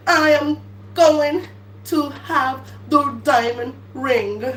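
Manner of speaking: ordinary talk, nothing marked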